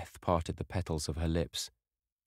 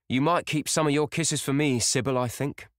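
good-natured grumble; 9 semitones higher, 5 dB louder than usual. A narrator's reading. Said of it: "with a good-natured grumble".

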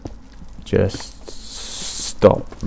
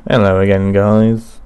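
intro greeting; 7 dB louder, slower than usual. Shown as a demonstration. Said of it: "start again".

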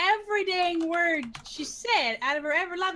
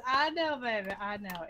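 mildly soothing retold reassurance, trailing lower and softer; 5 semitones lower, 4 dB quieter than usual. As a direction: gently comfort her, settling down. Retold soothing of the teased woman.

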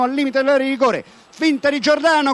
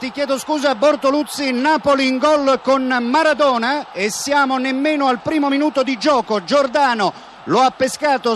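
excited goal announcement; 3 semitones higher than usual. Real, not acted. Interrupts with breaking goal news.

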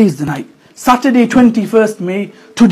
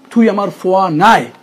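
angry parent; 3 semitones higher, 5 dB louder than usual. Retold or imitated. Parent disowning a child who did wrong, angry shout. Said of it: "when the crunch comes".

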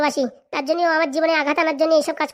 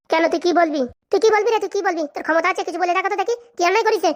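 higher, heated confrontational questions; angry challenge; 3 semitones higher than usual. Acted. Daring a rival to say it, angry challenge. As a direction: throw it back as a dare. Acted quarrel, challenging the other man.

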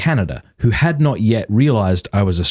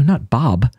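"Bob" as the Australian Barb, no R; Australian pronunciation; 3 semitones higher than usual. Retold or imitated. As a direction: mimic the Australian "Bob" in correction. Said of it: "the way I say Barb is Bob".

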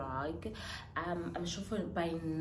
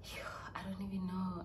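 teary whisper; 2 semitones higher, much faster than usual. Real, not acted. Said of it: "I'm so teary saying this".

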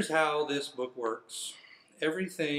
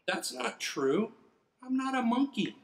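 indignant; 8 semitones higher than usual. Real, not acted. Reader protests indignantly.

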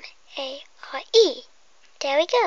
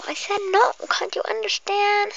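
higher and louder, fed up; exasperated refusal; 7 semitones higher, 4 dB louder than usual. Acted. Customer angrily refuses the hairdresser's pleading. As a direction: snap back in frustration.

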